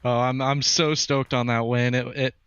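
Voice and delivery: breathless, broken restarts after the race; out of breath. Real, not acted. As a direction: still catching your breath between words. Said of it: "I'm still catching my breath as well".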